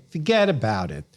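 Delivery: New York mobster "fuhgeddaboudit"; lightly voiced New York wiseguy; mafia character. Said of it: "mafia characters saying".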